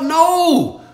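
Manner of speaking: telling the viewers to quit making excuses, loudly; exasperated shouting. Real, not acted. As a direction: yell it like a frustrated coach. Exasperated rant at excuse-makers.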